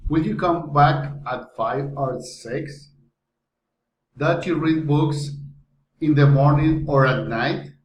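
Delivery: choice questions with the voice moving up and down around "or"; rising and falling intonation. Shown as a demonstration. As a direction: shape "five or six" as a textbook either-or question. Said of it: "rising and falling intonation".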